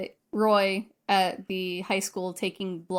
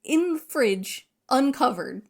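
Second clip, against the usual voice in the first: higher, drawn-out disbelief; appalled emphasis; 4 semitones higher, slower than usual. Real, not acted. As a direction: spell out the offence piece by piece. Disgusted at uncovered chicken.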